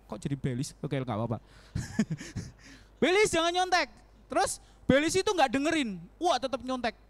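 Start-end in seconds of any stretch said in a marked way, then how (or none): 3.0-3.9 higher, louder firm warning; loud inner voice. Retold or imitated. God's voice warning Belis at first, loud and firm. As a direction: call it out clearly at first. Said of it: "Kenceng pertamanya".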